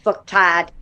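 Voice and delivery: put-on Boston accent on fucktard. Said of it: "It's with Boston Brian's accent".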